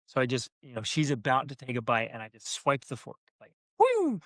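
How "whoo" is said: very high gleeful cry; teasing parent's squeal; playful whoop. Retold or imitated. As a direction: whoop as you snatch the fork. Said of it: "my playfulness".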